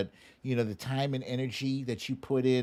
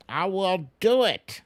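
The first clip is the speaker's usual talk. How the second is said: louder and higher, DO punched hard; a gleeful, loud vow; emphatic repeat; 8 semitones higher, 7 dB louder than usual. Real, not acted. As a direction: hit DO in "I will do it" loud and high.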